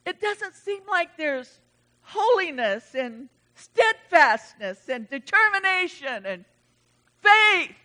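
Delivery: rising, breaking plea to God with a cry in the voice; tearful plea. Retold or imitated. Preacher crying out to God about the church, tearful. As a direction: cry out to God as if near tears.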